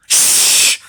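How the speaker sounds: sudden whispered shh; hush. Acted. Badger hushing the animals, whispered shh. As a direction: hush everyone at once. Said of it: "said Badger suddenly".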